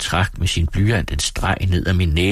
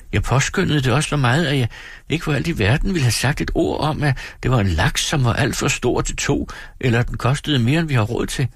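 hulkende; 6 semitones higher than usual. Acted. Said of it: "hulkede Dora".

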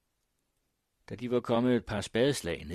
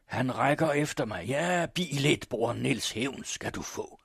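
high, loud vengeful cry, fading at the end; Morten Bruus; 5 semitones higher, 5 dB louder than usual. A narrator's reading. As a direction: shout a vow to your dead brother, then sink. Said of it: "råbte Bruus".

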